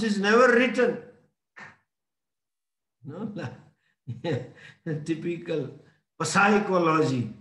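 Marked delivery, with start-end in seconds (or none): 6.2-7.3 "psychology" with the silent P voiced; P sounded. Shown as a demonstration. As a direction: say "psychology" as written, starting puh-sy. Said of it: "but the P is silent".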